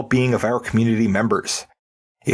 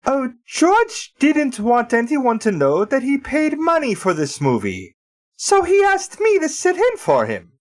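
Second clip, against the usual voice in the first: high, slow, badly faked British voice; bad British accent; 11 semitones higher than usual. Disguised guest explains in a bad British accent. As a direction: put on a clumsy British accent. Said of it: "work on your accents before you do them".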